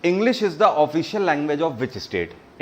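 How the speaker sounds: reading the question very slowly, word by word; slow quiz read. Shown as a demonstration. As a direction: spell out the question slowly for the class. Quiz host reads question aloud. (प्रश्न को बहुत धीरे-धीरे पढ़ना)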